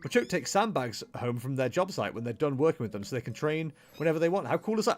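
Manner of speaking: high, excited gushing voice; eager character voice. Acted. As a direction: gush like an overexcited fan. Voices Ditto dialogue.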